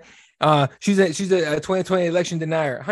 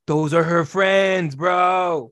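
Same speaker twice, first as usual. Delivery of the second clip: retold shout; much slower than usual. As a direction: drag it out and yell it at him. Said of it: "I'm like".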